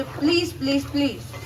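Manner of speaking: high, coaxing repeated please; pleading please. Real, not acted. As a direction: beg the viewers sweetly for a subscribe. Begging viewers to subscribe. (ऊँची आवाज़ में मनाते हुए please)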